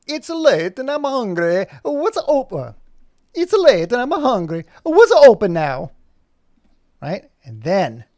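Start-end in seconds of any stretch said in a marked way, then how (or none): 0.1-5.9 high, slow, loud dog character voice; hungry pup whining for food; Rocco voice. Acted. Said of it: "Rocco comes into the scene and goes".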